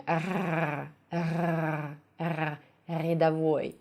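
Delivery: long throaty French "р", then the same in "рядовой"; exaggerated French R. Shown as a demonstration. Teacher showing what not to do, French-style R. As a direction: overdo the R in "рядовой" in a French manner. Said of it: "you do it in a French manner".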